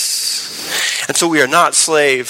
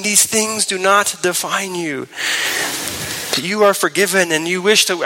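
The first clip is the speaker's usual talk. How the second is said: tender; 3 semitones higher, 3 dB quieter than usual. Retold or imitated. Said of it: "speak tenderly to their heart".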